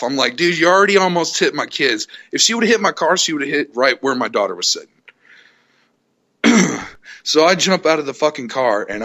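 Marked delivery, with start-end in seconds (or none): 0.4-4.9 angry. Retold or imitated. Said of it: "so I'm pissed off".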